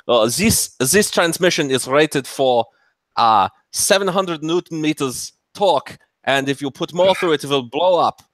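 a hint of a German engineer, measured and stiff; faint German accent; mock German accent. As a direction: lightly play a cautious German engineer. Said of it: "my terrible German accent".

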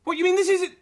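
high-pitched astonished exclaiming; incredulous amazement. Acted. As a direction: blurt it out in disbelief. Realises the twin is real.

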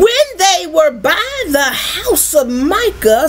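"by" leaned on and drawn out; stress on BY. Shown as a demonstration. Preacher stresses they were by the house, stress on BY. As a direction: lean hard on the word "by". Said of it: "say by".

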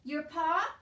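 high, loud query; shouted question. A narrator's reading. Soldier asking deaf Meg about her father, shouting. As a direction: call it out to be understood. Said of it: "shouted the soldier".

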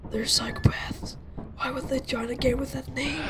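hushed unvoiced whisper. Real, not acted. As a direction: whisper it so they can't hear. Warning friends about strangers.

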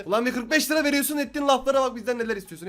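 a grumbling viewer, lightly voiced; mock annoyed viewer. YouTuber voicing a viewer complaining about his begging, mock annoyed. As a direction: play the complaining fan, half-mocking. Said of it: "Diyeceksin şimdi".

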